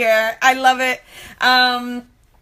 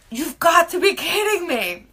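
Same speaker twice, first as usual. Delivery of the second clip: higher-pitched mock astonishment; incredulous, pitched up; retold disbelief; 5 semitones higher than usual. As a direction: act out being lightly floored. Own disbelief at proof, retold.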